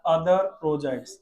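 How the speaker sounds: slow, drawn-out words; slow dictation. Shown as a demonstration. Teacher dictating slowly to the class. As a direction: stretch each word for the class. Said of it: "आगे सुनो बेटा".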